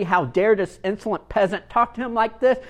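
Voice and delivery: indignant samurai. Retold or imitated. Samurai's angry thought.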